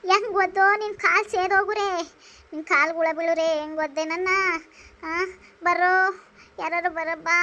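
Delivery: acted wail of a hurt mother; tearful wailing. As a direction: lament and plead for help. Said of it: "ಯಾಕ್ ಅಳ್ತಾ ಇದೀಯ".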